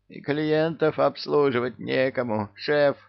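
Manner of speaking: high, whiny little deputy; plaintive babble. A narrator's reading. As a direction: plead like a timid underling. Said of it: "жалобно пролепетал зам".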